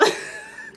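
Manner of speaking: squeaky self-conscious giggle; high giggle. Real, not acted. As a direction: giggle at yourself. Laughs at herself going off.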